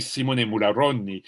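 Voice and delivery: A musician's name said with a light Italian accent. Shown as a demonstration. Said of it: "I take my Italian accent right now".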